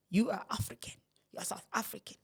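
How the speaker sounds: whispered reminder. Retold or imitated. To people in the UK, whispering that she is South African. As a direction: confide it under your breath.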